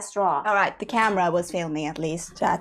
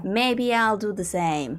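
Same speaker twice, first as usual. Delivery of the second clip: slowly stretched musing; mulling it over slowly; drawn-out repeat; slower than usual. Real, not acted. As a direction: draw the words out slowly.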